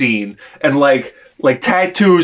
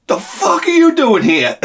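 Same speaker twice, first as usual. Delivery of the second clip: mobster yelling; 11 semitones higher than usual. Retold or imitated. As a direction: bark it like a startled mobster. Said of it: "he's like".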